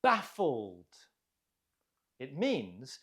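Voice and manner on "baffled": Baffled with BAF stressed, then falling away; stress on first syllable. Shown as a demonstration. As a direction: hit the first syllable of Baffled, let the end drop. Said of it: "Note the stress on the first syllable".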